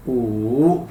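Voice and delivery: ऊ as Mandarin wu with a silent w. Shown as a demonstration. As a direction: say ऊ and drop the w. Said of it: "डब्ल्यू silent है". (चीनी "ऊ", डब्ल्यू के बिना)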